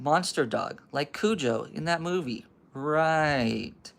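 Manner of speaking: lilting, sceptical mock agreement; sarcastic doubt. Bertie doubting Andy's monster dog, sarcastic. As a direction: play along without believing a word.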